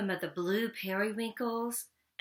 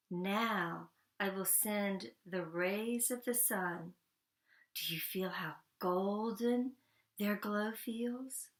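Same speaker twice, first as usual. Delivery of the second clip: soothing storytelling. Acted. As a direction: lull them with golden warmth, slowly. Frederick conjures the sun.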